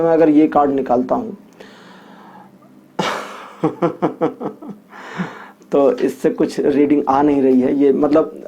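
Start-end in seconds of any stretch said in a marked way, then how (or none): 3.6-4.7 chuckle. Real, not acted. Card reader stuck on a reading, chuckling. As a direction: chuckle quietly to yourself.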